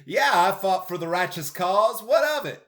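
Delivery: a touch of a proud Southern guy; Southern accent. Retold or imitated. Describing the unashamed Southern character, light Southern accent. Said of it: "that Southern accent slipped out".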